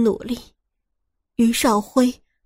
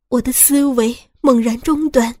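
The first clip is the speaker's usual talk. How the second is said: plain reading voice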